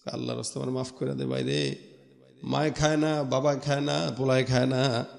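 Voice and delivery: soft, subdued begging; acted meek pleading. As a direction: play a caught thief quietly begging for mercy. Captured thief begs for release. (নিচু গলায় কাকুতি-মিনতি)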